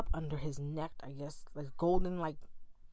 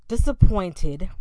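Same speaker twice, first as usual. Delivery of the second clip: disappointed drawn out slow and much louder; drawn-out stress; 3 semitones higher, 14 dB louder, slower than usual. Real, not acted. Telling the audience how let down she felt, disappointed stretched loud and slow. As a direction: lean hard on disappointed, stretching it.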